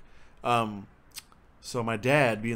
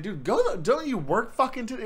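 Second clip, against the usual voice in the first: high, loud annoyed retort; exasperated protest; 10 semitones higher, 4 dB louder than usual. Retold or imitated. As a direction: try to get your meddling dad to leave. Pissed son snaps at teasing dad.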